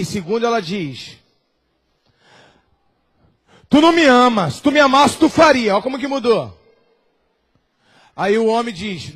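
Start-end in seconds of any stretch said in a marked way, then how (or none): 3.7-5.7 louder, insistent demand; firmer wife. Acted. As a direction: press him harder. Wife's second attempt. (esposa cobrando o marido, mais firme)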